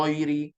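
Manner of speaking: "ghairi" wrongly rounded to "ghoiri"; mock the mistake with pushed-out lips on "ghairi"; "ghairi" with a round o vowel; protruded lips. Shown as a demonstration. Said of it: "Jangan muncul mulut".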